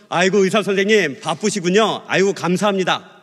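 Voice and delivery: mildly sulky mock thanks; politely miffed. Slighted patient thanks the busy doctor, mildly miffed. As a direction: thank them with a touch of pique. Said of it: "삐졌다".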